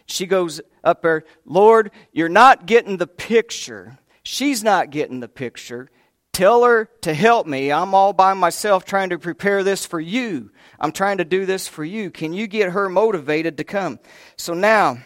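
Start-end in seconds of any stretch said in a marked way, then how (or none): 1.5-4.0 loud, higher exasperated demand on not; demanding complaint. Retold or imitated. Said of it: "she's actually demanding". 6.3-14.0 demanding. Retold or imitated. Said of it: "she's actually demanding".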